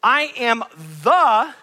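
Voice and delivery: slow "I am the" with "the" pressed; emphatic slow quote; stress on THE. Shown as a demonstration. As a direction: spell it out for the congregation. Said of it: "when he says".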